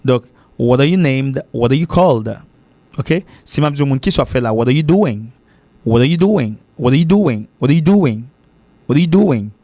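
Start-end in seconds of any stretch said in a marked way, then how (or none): 0.6-2.4 "what are you" run together as "wada you"; American flat T. Shown as a demonstration. Teacher giving American examples, flat T. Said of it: "ça existe seulement aux États-Unis". 4.5-9.5 "what are you doing" linked as "wada you doing"; American flat T. Shown as a demonstration. Teacher drilling learners in the American accent, flat T. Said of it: "l'accent, c'est what".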